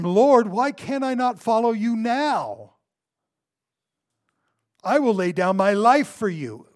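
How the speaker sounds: loud, high, impassioned vow; bold declaration. Acted. Peter vowing loyalty to his Lord, bold and loud. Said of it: "with his braggadociousness, with his pride".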